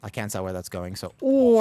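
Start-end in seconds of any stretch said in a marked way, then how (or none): 1.2-1.6 sudden high, loud "oh" as her character dies; a real shocked cry, far above her usual pitch; startled yelp. Real, not acted. Dies suddenly in boss fight.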